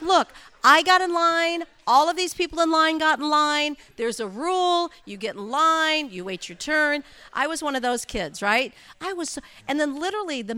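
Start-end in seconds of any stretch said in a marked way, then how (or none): 0.0-7.0 raised, indignant voice, louder and higher; mock road rage rant. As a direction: replay the anger half laughing. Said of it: "I was so mad".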